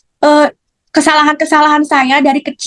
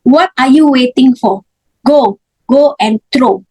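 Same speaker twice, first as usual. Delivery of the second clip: slow, measured divine command, lightly voiced; a hint of God's voice ordering her to throw away the idols; slower than usual. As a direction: lay each word down slowly like a calm command from above. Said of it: "dia ngomong begini".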